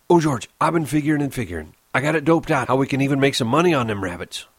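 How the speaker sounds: fast eager rush. Acted. Candy tells George his plan, eagerly. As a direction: spill the idea out.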